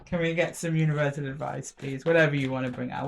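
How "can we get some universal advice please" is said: softer, gentle polite request; asking nicely. Real, not acted. Reader now asks Spirit nicely, softer and polite. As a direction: coax it out sweetly. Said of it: "I'm asking nicely, Spirit".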